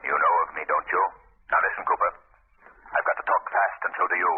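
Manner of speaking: the Shadow taunting a frightened hired man, low and eerie. Acted. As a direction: speak as an unseen avenger looming over him. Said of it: "I'm the Shadow".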